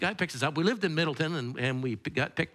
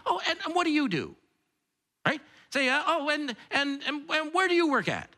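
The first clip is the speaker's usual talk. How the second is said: small talk; 9 semitones higher than usual. Retold or imitated. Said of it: "you say".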